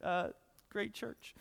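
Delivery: loud, high burst of mock laughing; jeering laugh, then back off; mock hysterical laughter. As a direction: pretend to crack up at someone's pain. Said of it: "laugh hysterically together".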